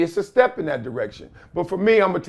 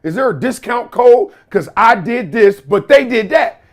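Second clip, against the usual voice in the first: put-on pleading, higher, whining child; whiny kid voice; 5 semitones higher, 4 dB louder than usual. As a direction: beg like a kid after a discount.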